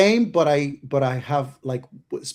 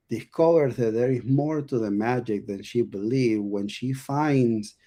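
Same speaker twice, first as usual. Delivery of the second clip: movie trailer voice. Shown as a demonstration. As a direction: build it up like a film trailer. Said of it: "I start to say it like this".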